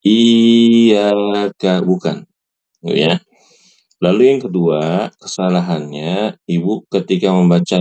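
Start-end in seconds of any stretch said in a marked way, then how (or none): 0.0-1.8 "iyyaka" with a long drawn i; the mistaken long-i "iyyaka"; wrong reading. Shown as a demonstration. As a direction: stretch the opening i of "iyyaka" too far. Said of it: "Dan ini salah, bukan".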